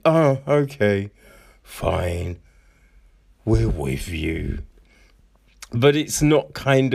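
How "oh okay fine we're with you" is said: grudging surrender. Retold or imitated. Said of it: "they're like".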